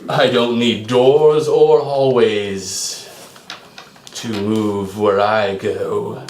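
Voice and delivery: slow, menacing villain boom. Acted. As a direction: speak slowly like a booming sorcerer. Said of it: "you hear a booming voice".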